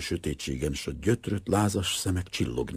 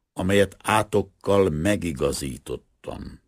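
scripture quotation; 2 semitones higher, 3 dB louder than usual. A narrator's reading. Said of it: "eszébe jutott az írás szava".

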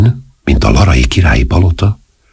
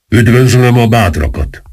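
higher-pitched solemn greeting; hushed, solemn; 6 semitones higher than usual. A narrator's reading. Masked captain welcoming the brave conspirators, hushed and solemn. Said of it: "mondta végül is halkan és ünnepélyesen".

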